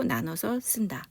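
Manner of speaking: whisper. Real, not acted. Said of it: "teacher whispers a writing tip".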